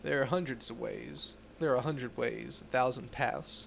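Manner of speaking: measured, serious investigator tone; stern Inquisitor voice. Acted. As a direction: read it like a grave inquisitor. Reads Inquisitor NPC dialogue.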